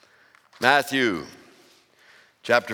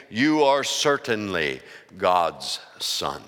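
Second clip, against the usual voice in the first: lower, slow hushed worship; awed disciples; 8 semitones lower, slower than usual. Acted.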